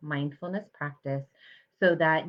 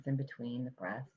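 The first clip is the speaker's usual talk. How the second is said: guided mindfulness meditation. Real, not acted. Meditation teacher guiding listeners to notice their breath, calm and measured. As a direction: calmly guide them to the breath, leaving space between phrases.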